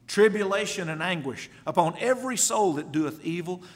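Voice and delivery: loud pulpit declamation; forceful scripture reading. Real, not acted. Preacher reading out judgment on evildoers, forceful. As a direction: drive the verse home loudly.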